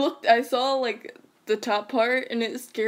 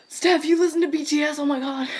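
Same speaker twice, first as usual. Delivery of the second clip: loud, higher-pitched excited gush; excited fangirling; 6 semitones higher, 6 dB louder than usual. Real, not acted. Fan reacting to friend knowing K-pop band, excited. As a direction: gush loudly like a thrilled fan.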